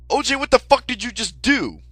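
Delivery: high, loud horrified yell; shocked yell. Retold or imitated. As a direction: shriek it in disbelief. Shocked at a stabbing.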